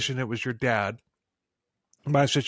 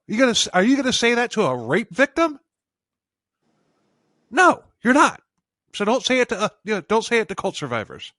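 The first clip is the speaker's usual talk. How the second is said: indignant, emphatic challenge, raised pitch; worked up; 3 semitones higher than usual. Real, not acted. Podcaster defending cult survivors against critics, worked up. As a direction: get heated and punch the refusal. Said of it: "I'm getting worked up about this".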